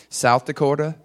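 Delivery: slight Dakota accent on the state name. Real, not acted. Preacher listing his region's states, slipping into a Dakota accent. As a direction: let a Dakota accent slip into South Dakota. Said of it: "I said that with a Dakota accent".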